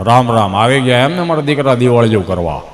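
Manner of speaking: lightly voiced old man answering warmly; old grandpa voice. A villager grandpa greeting a visitor in a low old man's voice.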